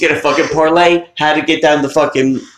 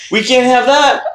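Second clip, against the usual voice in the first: mock disapproval; 8 semitones higher than usual. Repeated mocking line.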